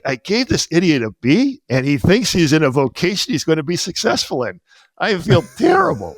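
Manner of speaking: lightly voiced worried teacher; mock despair in the teacher's head; teacher's inner dismay. Teacher regretting the grade, lightly voiced. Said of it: "he's like".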